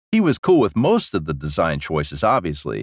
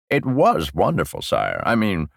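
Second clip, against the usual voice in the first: gush, then hastily correct yourself; backtracking old lecher; 3 semitones lower than usual. Acted. Old prisoner hiding his pleasure from the king, backtracking. Parfait's character voice.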